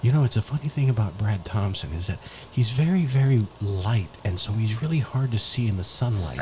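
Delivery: hushed golf color commentary; soft, low commentator banter. Acted. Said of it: "You're the color commentator".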